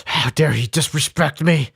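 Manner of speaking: a hammed-up wounded teacher rising to a cry; mock teacher going from grumble to whine; imitating an offended teacher. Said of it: "They're like, teacher's death glare".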